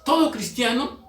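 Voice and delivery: forceful preacher, stressing key words; preaching. Real, not acted. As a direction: drive each point home to the congregation.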